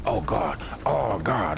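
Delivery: lightly voiced Tricky Dick groan, half-hearted; a hint of a Tricky Dick moan; Tricky Dick impression. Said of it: "Like a Tricky Dick".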